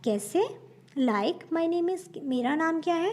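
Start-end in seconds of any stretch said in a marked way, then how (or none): 1.0-2.2 slow model phrase. Shown as a demonstration. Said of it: "teacher models the phrase".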